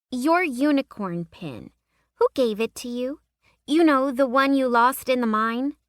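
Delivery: put-on high curious young girl; a girl pressing with questions; little girl voice. A narrator's reading.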